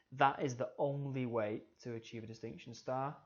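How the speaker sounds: "only" given emphasis within the read-out sentence; stress on only. Shown as a demonstration. Teacher showing how italics change a sentence, stress on "only". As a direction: read it out, leaning on the word "only". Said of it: "it puts emphasis on that word".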